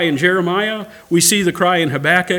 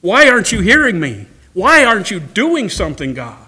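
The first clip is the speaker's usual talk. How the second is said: rising, louder desperate plea; a frustrated prayer, pushing God for an answer; crying out to God; 3 dB louder than usual. Pretend. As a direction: believer praying in frustration. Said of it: "cried out to God and said".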